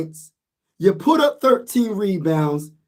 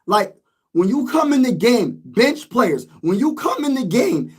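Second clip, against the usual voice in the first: strained, fading hoarse voice; 4 semitones higher than usual. Real, not acted. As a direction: voice giving out from yelling. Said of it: "I'm losing my voice".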